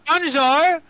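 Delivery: high, loud French greeting; French accent. Acted. Drow greets players at his door, French accent. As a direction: sing out a hammed-up French hello. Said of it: "what if he's French instead".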